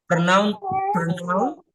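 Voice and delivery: pronoun- cut off after the first part, rising; broken into syllables. Shown as a demonstration. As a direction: chunk pronunciation into pieces. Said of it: "diputus-putus ya".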